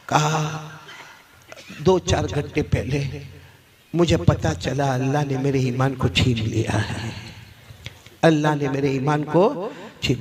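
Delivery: low, halting confession, lightly acted; dying student. Dying student telling teacher his faith was taken, subdued. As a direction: let it out low, with long pauses.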